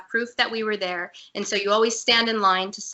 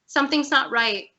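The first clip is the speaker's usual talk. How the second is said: emotional, near tears; 6 semitones higher than usual. Real, not acted. Guest telling the interviewer about her breakdown at work, near tears. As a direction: voice pitched up and tight with held-back tears. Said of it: "I don't mean to get emotional".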